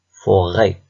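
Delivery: firm, measured "Forêt"; split into syllables. Shown as a demonstration. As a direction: show both syllables of "Forêt". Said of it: "Deuxième syllabe".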